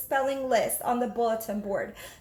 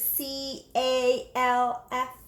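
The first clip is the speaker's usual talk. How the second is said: letter by letter, very slow; slow spelled letters; much slower than usual. Acted. Jamaica reading a classmate's letters, slowly.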